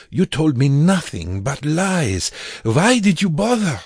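high, loud anguished accusation; bitter, anguished. Acted. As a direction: hurl it at him, betrayed. Accusing the vampire.

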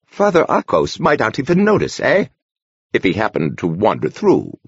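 lightly voiced old monk, gently teasing; a sly old monk poking fun; teasing old man. A narrator's reading. Horner teases Francis.

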